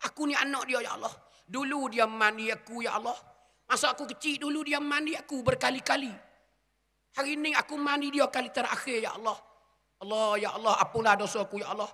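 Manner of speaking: a lightly voiced son pleading with God over his mother's body; grieving son's prayer. Preacher voices son praying at mother's funeral, lightly grieving plea.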